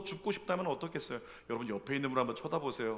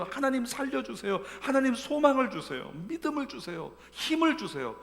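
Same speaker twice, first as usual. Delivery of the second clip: higher-pitched voiced intercession; mock prayer; 9 semitones higher, 4 dB louder than usual. Believers praying over a suffering member, lightly voiced pleading. Friends praying beside her.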